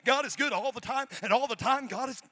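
singsong church mother chant; lilting call and answer; church mother call and response. Retold or imitated. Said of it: "that's what church mothers say".

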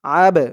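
"আব" with a small push after the b; qalqalah bounce. Shown as a demonstration. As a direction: bounce the final b of "আব" into a brief echoing release. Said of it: "কলকলা মানে ধাক্কা দিয়ে পড়া".

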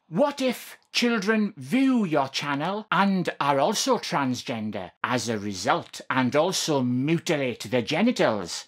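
preacher voice. Acted. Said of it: "I'm doing my best preacher voice here".

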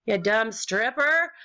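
high, shouted, mocking insult at a rival; mock angry insult. To a rude player in chat, a mock angry shout. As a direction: spit it out like a fake furious rant. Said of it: "be like".

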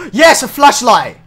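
high, loud cheer; excited shout. Real, not acted. Player finding a flashlight in the dark game, excited shout. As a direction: shout it in triumph.

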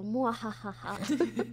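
slow evil laugh; drawn-out villain laugh; mad scientist laugh. Pretend. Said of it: "That's the attitude, evil pokey".

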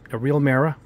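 New England "mirror" said as "mehra", r dropped; heavy New England accent on "mirror". Real, not acted. Showing viewers a glass display mirror, in his New England accent. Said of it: "I got that New England accent going".

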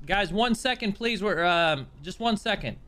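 flustered. Real, not acted. Stalling the crowd.

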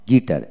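গিটার with no U sound after the G; silent U. Shown as a demonstration. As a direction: say গিটার with a hard G straight into the vowel. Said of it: "ইউ উচ্চারিত হবে না". (গিটার, ইউ অনুচ্চারিত রেখে)

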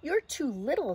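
high, piping naysayer; little doubting voice. Acted. Little voice telling Zoe she is too small, high and nagging. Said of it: "The little voice says".

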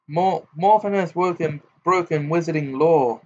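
exaggerated mock-official tune; pompous imitation. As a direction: mimic the official in a pompous sing-song. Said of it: "Gaunt imitated Ogden's voice, making it pompous".

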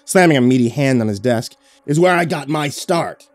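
a hint of a proud, threatening boss; domineering boss. A boss warns his reporter he is on thin ice, domineering.

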